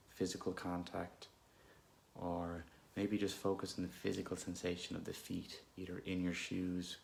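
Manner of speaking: unhurried, calm meditation guidance with long pauses; guided meditation. Real, not acted. Guide leading listeners through an anxious moment, calm meditation voice. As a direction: gently lead listeners inward, leaving space between phrases.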